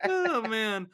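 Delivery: laughing out loud. Real, not acted. Big laugh after joke.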